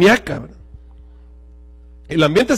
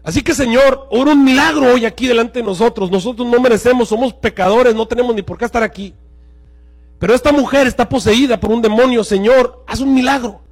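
fervent prayer; 5 semitones higher than usual. Acted. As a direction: cry out to the Lord for a miracle. Leads a live prayer.

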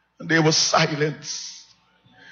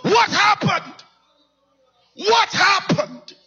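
anguished wail; slower than usual. Retold or imitated. Sees dead father in morgue.

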